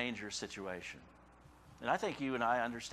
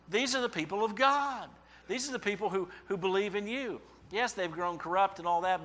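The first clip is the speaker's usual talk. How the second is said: high, louder pleading questions; complaining prayer; 6 semitones higher, 3 dB louder than usual. Acted. Believer protesting to the Lord, high pleading. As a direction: argue with God.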